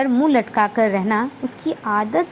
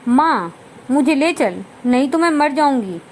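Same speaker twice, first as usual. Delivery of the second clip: crying plea. Acted. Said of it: "और ज़ोर से रो पड़ी".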